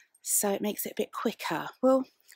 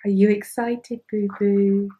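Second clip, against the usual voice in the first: excited dog talk; 4 semitones lower, 8 dB louder than usual. Real, not acted. Hyping up the dog.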